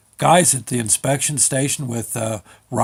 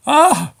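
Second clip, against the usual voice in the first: high, loud mock-alarmed "ah"; alarmed cry; 12 semitones higher, 5 dB louder than usual. Driver imagines being stopped over the limit, alarmed cry.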